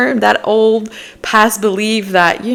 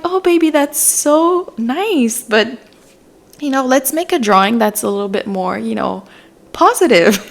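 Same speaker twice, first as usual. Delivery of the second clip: tender parent voice; 4 semitones higher than usual. Pretend. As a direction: coo it gently to the child who drew the picture. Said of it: "You can be like".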